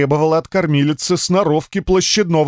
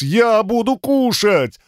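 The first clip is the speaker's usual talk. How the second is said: much higher, slow eager begging; begging dog; 8 semitones higher, slower than usual. Acted. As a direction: plead like a hungry puppy. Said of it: "взмолился пёс". (пёс умоляет, высоко и медленно)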